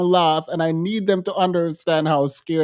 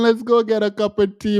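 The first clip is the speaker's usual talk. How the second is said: best attempt at a British accent; playful British-accented invitation. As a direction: put on a light British accent. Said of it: "in my best British accent that I could muster".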